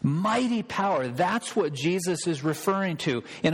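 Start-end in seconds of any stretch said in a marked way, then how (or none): 0.0-1.1 put-on raised, lightly Argentine Spanish accent; a hint of Palau's Argentine accent, savoring it. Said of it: "That's how he would say it".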